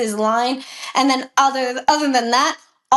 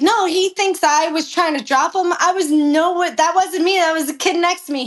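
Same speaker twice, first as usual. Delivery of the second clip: higher-pitched, insistent denial; retold protest; 5 semitones higher than usual. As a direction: plead your innocence as you retell it. Acted protest to the trainer.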